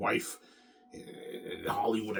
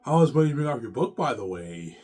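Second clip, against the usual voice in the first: put-on eager girl voice; 3 semitones higher, 9 dB louder than usual. Voicing the girl asking.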